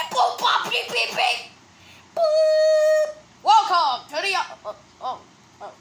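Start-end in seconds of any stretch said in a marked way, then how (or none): 0.1-3.1 robot beeps. Acted. Robot noises.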